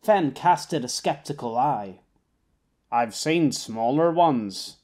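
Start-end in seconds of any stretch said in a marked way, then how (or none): 2.9-4.8 deadpan understatement. Acted. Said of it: "A deliberate understatement".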